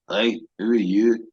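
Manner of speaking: put-on slow, made-up Highland accent; a lightly put-on Highland accent, drawn out; a hint of made-up Scottish Highland accent, slowly. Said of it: "Putting on a Highland accent".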